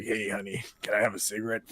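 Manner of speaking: low, lightly voiced street come-on; woman on the street. Woman approaching man at night for cigarette, low imitation. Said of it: "a woman comes up to me".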